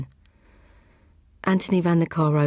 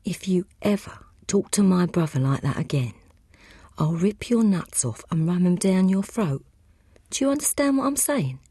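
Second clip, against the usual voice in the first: menacing threat; 2 semitones higher than usual. Acted. Michael threatens Grierson by throat.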